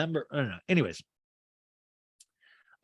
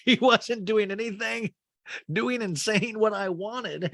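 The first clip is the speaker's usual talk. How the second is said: high, slow mimicking voice; 8 semitones higher, slower than usual. Friend echoing the housewife's claim, high mocking imitation. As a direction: repeat it back in a drawn-out high pitch. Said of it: "he laughs really hard and goes".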